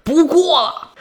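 high-pitched fed-up wife; storyteller acting out an exasperated queen; angry. A narrator's reading. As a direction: snap at your husband, pitched high. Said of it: "这王后就生气了".

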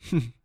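a small, soft "hmph"; brief dismissive snort of a laugh; light scoffing chuckle. A narrator's reading. Man musing on the company's name, light chuckle. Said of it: "轻笑了一声".

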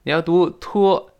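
托 said high and loud; teacher shows the wrong t sound, high and loud; demo 托. Shown as a demonstration.

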